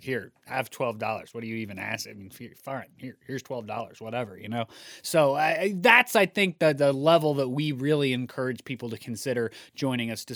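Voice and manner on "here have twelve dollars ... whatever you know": low, soft offhand mock quote; acted nonchalant mumble, low and soft; casual brush-off. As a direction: toss it off quietly, like it's no big deal. Imagined friend handing over money casually.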